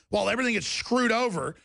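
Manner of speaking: ordinary talk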